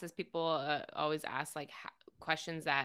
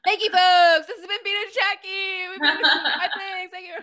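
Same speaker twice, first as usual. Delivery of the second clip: laughing, much higher and louder sign-off; hammy show host; 13 semitones higher, 15 dB louder than usual. Pretend. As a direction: ham it up like a cheesy host. Mock sign-off to audience.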